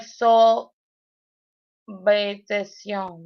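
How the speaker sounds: so-habitación said as one word, slowly; habitación joined onto su; run together. Retold or imitated. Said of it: "like it's just one word".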